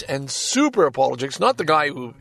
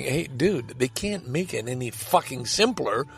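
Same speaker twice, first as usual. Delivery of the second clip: imitating younger folks; 3 semitones lower than usual. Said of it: "some of you younger folks are saying".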